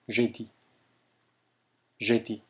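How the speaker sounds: jeudi with "eh" through lips rounded for "oh"; careful French jeudi, no glide in the first vowel; French vowel demo. Shown as a demonstration. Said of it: "오의 입모양을 하면서 동시에 에 발음을".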